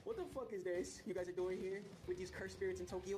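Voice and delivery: rising into a squeaky wail on the last line; a goofy alien pleading, building to a high cry; hammed-up alien plea, going shrill at the end; mock alien voice. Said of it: "they're like".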